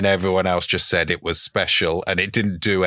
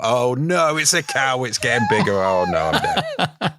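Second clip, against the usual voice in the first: mock panic; 5 semitones higher than usual. Voicing the blind man's panic.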